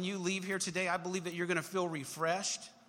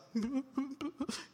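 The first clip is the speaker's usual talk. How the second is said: mock whimper; 8 semitones higher, 3 dB quieter than usual. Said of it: "she hears him kinda crying".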